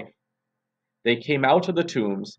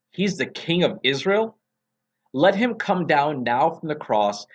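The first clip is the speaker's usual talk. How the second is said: mocking taunt; 2 semitones higher than usual. Chief priests jeering at Jesus, mild mocking sneer. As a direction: sneer it up at the man on the cross. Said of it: "the elders mocked him".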